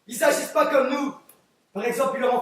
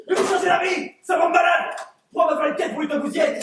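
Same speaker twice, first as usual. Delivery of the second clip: angry rant; 3 semitones higher than usual. Acted. Juror rants at the others.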